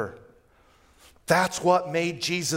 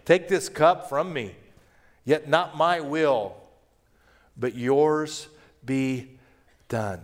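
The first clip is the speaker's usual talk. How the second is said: surrendering prayer. Acted. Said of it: "Verse forty-two".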